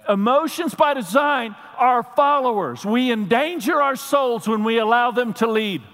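fiery pulpit preaching; preaching at full force. Acted. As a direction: build up the congregation like a call to battle.

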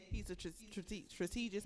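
words slurred around a sip; stumbling mid-sip; while sipping a drink. Real, not acted. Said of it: "I'm sorry, I'm drinking".

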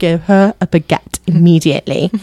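lightly put-on British accent. Onlookers answering a hungry tourist, in a British accent. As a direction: deliver the order in a British accent. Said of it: "I did that in a British accent".

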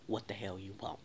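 low, restrained question; mock-polite and held back, voice kept down; peaceful, respectful. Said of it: "in my most peaceful and respectful voice".

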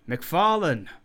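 loud, high call like a herald; somewhat loud, herald-like hail. A narrator's reading. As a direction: announce the name across the hall. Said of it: "he said somewhat loudly".

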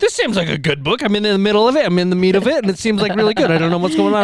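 lively mock reading aloud; imitating Becca. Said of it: "What if, this is Becca".

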